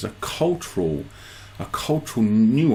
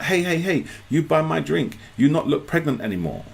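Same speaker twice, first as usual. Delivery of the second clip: higher, insistent imitation of the juice seller calling out; market woman; 6 semitones higher than usual. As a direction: hail him like a street vendor. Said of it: "she's like".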